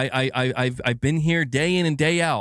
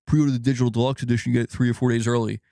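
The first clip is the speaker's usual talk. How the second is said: quicker, lower publisher pitch, lightly put on; mock sales pitch; 4 semitones lower, faster than usual. Streamer mimicking publishers pushing digital preorders, mock sales pitch. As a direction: rattle it off like a preorder ad.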